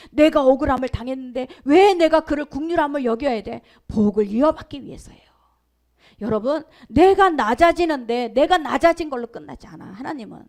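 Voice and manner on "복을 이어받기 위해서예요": hushed whisper; whispered answer. Real, not acted. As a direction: drop to a whisper to land the answer. Preacher answers own question.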